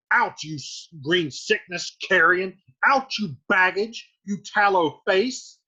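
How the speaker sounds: exasperated scolding, punching the insults; angry Capulet. Acted. Capulet berating his ungrateful daughter, angry. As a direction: scold in emphatic bursts, moderately heated. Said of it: "Capulet's mad".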